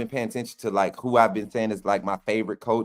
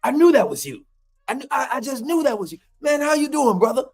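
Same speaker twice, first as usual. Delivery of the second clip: Jamarcus Shepherd voice; 14 semitones higher than usual. Retold or imitated. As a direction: do the coach's friendly greeting in his voice. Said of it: "this my Jamarcus Shepherd voice".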